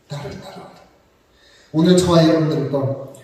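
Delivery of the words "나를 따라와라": "나를 따라와라" whispered, almost no voice; whispered call. Acted. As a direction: breathe "나를 따라와라" out as a hush. Preacher voicing Jesus' call. ("나를 따라와라"를 속삭이듯)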